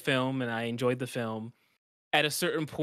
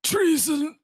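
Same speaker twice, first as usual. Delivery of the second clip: hammed-up cry of betrayal, much higher and louder; mock outrage; 7 dB louder, much slower than usual. A friend mock-accuses a podcast co-host, hammed-up outraged cry. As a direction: declaim it like a wronged king.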